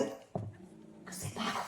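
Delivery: slow breathy whisper, barely voiced. Wife hushing her husband at the door, in a slow whisper. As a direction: whisper it, drawn out and hushed. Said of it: "స్లోగా మాట్లాడమన్నాడు అయ్యగారు".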